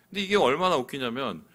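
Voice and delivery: ordinary talk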